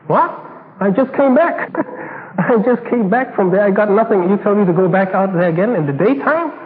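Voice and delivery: you must be joking, I just got back; incredulous protest. Acted. Peter protests going back out.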